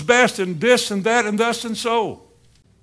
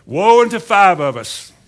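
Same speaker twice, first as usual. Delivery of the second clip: mock woe; 2 semitones higher, 7 dB louder than usual. Preacher's mock lament.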